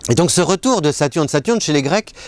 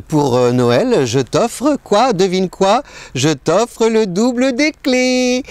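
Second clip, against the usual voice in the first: playful lover voice; 4 semitones higher than usual. Retold or imitated. Voices herself offering keys to partner.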